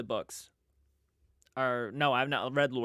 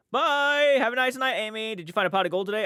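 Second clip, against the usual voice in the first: much higher, louder squeaky send-off; playful high voice; 7 semitones higher, 6 dB louder than usual. Pretend. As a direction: chirp it up high like a cheeky leprechaun. Teasing Amy about leprechaun gold.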